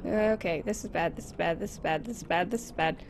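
low, soft, worried repeating; nervous mutter. Real, not acted. Player creeping toward the monster, low nervous mutter. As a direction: mutter it under your breath in dread.

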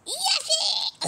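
high laughing call; laughing shout. Real, not acted. Calling out, laughing.

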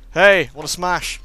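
drawn-out loud invitation; coaxing shout to the creature. Acted. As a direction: call it out slow and loud. Asking creature to smash.

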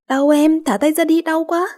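put-on a kid squealing with his ear pinched; boy yelping in pain.

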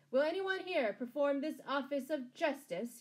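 loud, high-pitched public demand. A narrator's reading. Sheriff appealing to the crowd for a hangman, demanding. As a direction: call it out to the whole crowd. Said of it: "he demanded".

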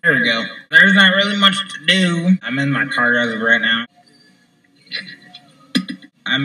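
talking around a lip of dip; chewing tobacco, mouth slightly full. Real, not acted. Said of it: "let me just pack a lip here".

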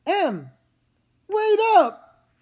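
high, loud call after her; calling to a sister ahead. Acted. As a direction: shout after someone walking off.

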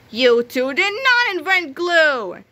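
slow, loud, furious words; angry shout. A narrator's reading. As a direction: hammer every word in anger. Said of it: "he shouted".

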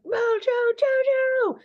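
slow, high, drawn-out shriek of the name; screamed name. Retold or imitated. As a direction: call him out like an enraged little girl. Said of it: "screaming Mojo Jojo's name".

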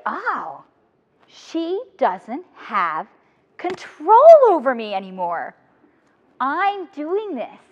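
very slow, calm, wondering; slow dawning realization. Retold or imitated. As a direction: let it dawn on you slowly, stretching each word. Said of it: "And then I was like".

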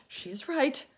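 high, loud shout. A narrator's reading. Ladybug shouting agreement to the group. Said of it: "shouted the ladybug".

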